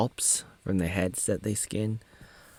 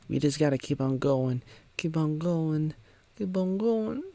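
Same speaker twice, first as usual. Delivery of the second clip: repeated urging, climbing higher each time; urging onward; 5 semitones higher than usual. Acted. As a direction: lift each repeat, ending high and drawn up. Voicing Pa urging them onward.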